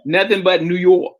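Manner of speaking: playful mock New York accent; put-on New York accent. Showing how co-host says certain words, mock New York accent. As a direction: mimic New York pronunciation. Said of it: "let y'all say certain words".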